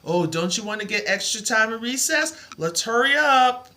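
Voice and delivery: hammed-up impatient teacher before recess; pushy teacher. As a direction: hurry the kids along, mocking the old teacher. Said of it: "They always did math just before recess".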